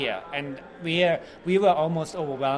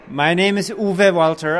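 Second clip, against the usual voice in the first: slow and loud, "Uwe" said clearly; over enunciating; 7 dB louder than usual. Shown as a demonstration. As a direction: spell out each syllable of "Uwe Walter". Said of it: "Do it one more time slowly".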